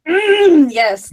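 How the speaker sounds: hammed-up swooning hum into a yes; mock hot and bothered. Joking to friends about German accents, playfully hot and bothered. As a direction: pretend to melt with pleasure. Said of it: "hot and bothered".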